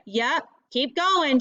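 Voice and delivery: slow, drawn-out call. Acted. Tressa calling to Delcy far down the beach, slow and teasing. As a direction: stretch it out teasingly. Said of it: "she calls".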